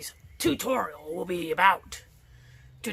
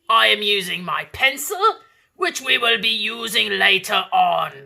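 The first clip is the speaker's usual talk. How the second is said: put-on pirate accent; 4 dB louder than usual. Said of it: "right realm of accents".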